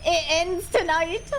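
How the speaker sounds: panicked high cries easing to relief; scared then relieved. Real, not acted. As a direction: yelp in fright, then sigh with relief. Enemy teams everywhere, then relief.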